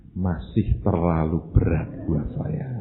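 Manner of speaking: low, slow, heavy refusal; reluctant refusal. Acted. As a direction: decline slowly in a low voice. Acts out reluctant buyer. (menolak pelan dengan suara rendah dan berat)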